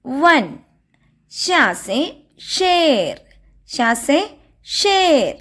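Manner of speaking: put-on each word said slowly and clearly for children to repeat; slow recitation drill. Shown as a demonstration. Teacher slowly drilling the class on Hindi letter words, recitation style. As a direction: chant the examples slowly like a teacher.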